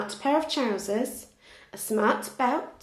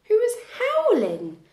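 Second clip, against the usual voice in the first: a mock dog howl on the words; 12 semitones higher, 3 dB louder than usual. A narrator's reading. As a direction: howl it high and louder like a dog. Narrator mimics a howl.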